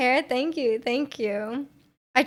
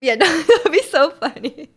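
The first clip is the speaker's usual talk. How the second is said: laughing; 4 semitones higher, 3 dB louder than usual. Real, not acted. Laughing at snake idea.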